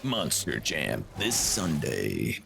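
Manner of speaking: slow hyped ad announcer; monster truck ad. Pretend. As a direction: drag out each word like an ad. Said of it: "cheesy monster truck ad".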